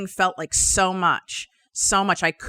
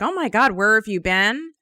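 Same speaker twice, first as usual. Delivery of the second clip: mock cheerful greeting; 4 semitones higher than usual. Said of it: "Super cheerful".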